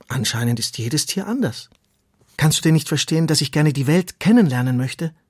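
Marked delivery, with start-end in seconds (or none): 2.4-5.1 louder, eager worm voice; pleading little worm. Acted. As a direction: press your wish on the friend. Ronny pleads with tortoise.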